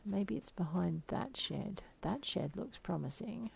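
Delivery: slow hushed whisper, sneaking up; slow stalking whisper. Real, not acted. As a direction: whisper so the dodo won't hear. Sneaking up on hidden dodo.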